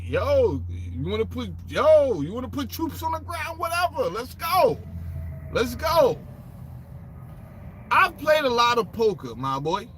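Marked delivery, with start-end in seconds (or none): 0.0-6.2 cocky reply. Retold or imitated. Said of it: "gave a little smile and said".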